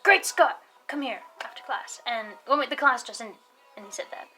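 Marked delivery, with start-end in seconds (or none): 0.0-1.2 high, punched summons, imitating a teacher; mock teacher's hail; teacher calling out. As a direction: call the student over like a teacher. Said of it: "he was like".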